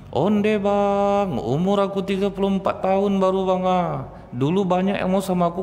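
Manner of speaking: high keening lament over the dead husband; mock wailing widow. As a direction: wail it like a widow listing her losses. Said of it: "Itu meratap". (ratapan janda yang dibuat-buat dengan suara tinggi)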